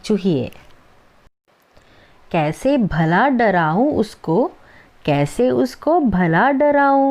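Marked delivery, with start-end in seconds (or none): 2.3-7.1 put-on slow, sing-song recital of a children's poem; poem recitation. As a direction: recite each line slowly for the class. Teacher recites Hindi poem.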